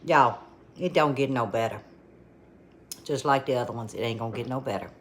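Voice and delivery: talking through a mouthful; words around a bite of food; mouth full. Real, not acted. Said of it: "I'm gonna talk with my mouth full".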